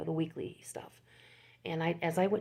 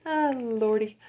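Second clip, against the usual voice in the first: exclaiming; 6 semitones higher, 8 dB louder, slower than usual. Real, not acted. Exclaims after feeling squished.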